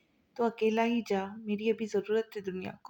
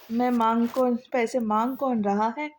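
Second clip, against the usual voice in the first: louder, sharp comeback; loud retort; 5 dB louder than usual. Acted. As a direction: cut him off loudly who's asking for money. Hoor retorts about money.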